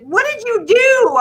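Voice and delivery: high, loud alarmed question; alarmed mother. Retold or imitated. Mother returning to her bawling son, alarmed. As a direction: demand it like a startled mom.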